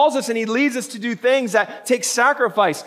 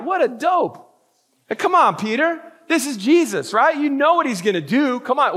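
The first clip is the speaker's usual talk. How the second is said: exasperated mocking; 5 semitones higher than usual. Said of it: "we're like".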